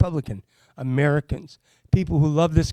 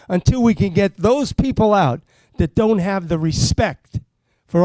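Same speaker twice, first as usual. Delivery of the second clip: heartfelt, swelling campaign plea; getting emotional; 3 semitones higher than usual. Real, not acted. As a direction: let the feeling carry you up into a rally cry. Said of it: "Sorry if I get a little emotional".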